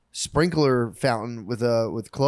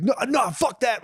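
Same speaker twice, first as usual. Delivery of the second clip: mock defiant teen; 11 semitones higher than usual. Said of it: "and he's like".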